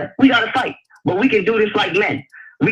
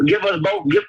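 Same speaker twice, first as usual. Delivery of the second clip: higher insistent repeat; 12 semitones higher than usual. Real, not acted. Pleading with Sonetta for time, higher insistent. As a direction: give us both, pitched much higher. Repeating request, pitch jumps.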